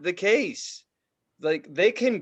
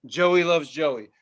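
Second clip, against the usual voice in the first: repeated mantra; 5 dB louder, slower than usual. Retold or imitated. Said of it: "I just kept saying".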